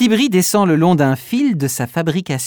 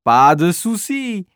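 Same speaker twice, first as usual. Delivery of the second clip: reassuring. Acted. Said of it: "les rassure Tibri".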